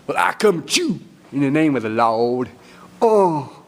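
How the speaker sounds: revival-preacher fervor; hammed-up holy proclamation ending in a cry; David's Pentecostal preaching. Storyteller as David getting into his revival, preacherly fervor. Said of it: "getting into his Pentecostal revival".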